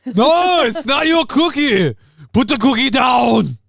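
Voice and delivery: high, loud, slow shouted cop voice; Kindergarten Cop quote. Retold or imitated. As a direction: yell it like an action-hero cop scolding kids. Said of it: "I thought we were talking about Kindergarten Cop".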